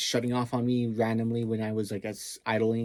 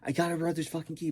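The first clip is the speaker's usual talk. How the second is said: mock sneering phone voice, a bit higher; imitating Taquito on the phone; 5 semitones higher, 4 dB quieter than usual. Taquito bragging to Davian on phone, mock voice. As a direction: brag it like a smug thug. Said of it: "And he's like".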